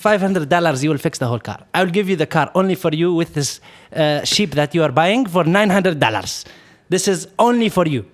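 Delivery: put-on fast-talking car seller in an Arab accent; imitated Arab accent. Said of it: "I'm gonna try to talk to his accent".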